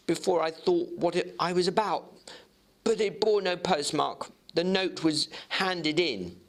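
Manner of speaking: Jekyll's voice. Acted.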